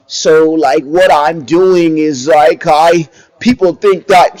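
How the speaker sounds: slow, put-on careful speaking voice, rising into a shout; mock proper talk. Commentator mocking the rapper's new way of talking on the stand, slow put-on formal voice. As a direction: parody someone putting on a formal courtroom voice. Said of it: "You don't talk like that".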